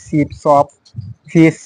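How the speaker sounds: "শিপ, শপ, ফিশ" with a sh sound like Bengali স. Shown as a demonstration. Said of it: "স এর মতো উচ্চারণ হবে".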